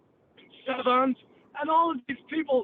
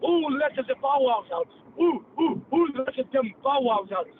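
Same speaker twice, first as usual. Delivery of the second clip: put-on Pakistani accent. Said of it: "he went like this".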